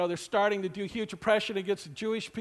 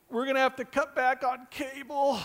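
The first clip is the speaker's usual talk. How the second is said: sighing, hammed-up lament; mock-distraught pleading; mock tearful; 3 semitones higher than usual. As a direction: imitate someone coming to you in tears over a trifle. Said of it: "come up in tears and say".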